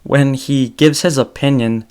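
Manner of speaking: normal talking voice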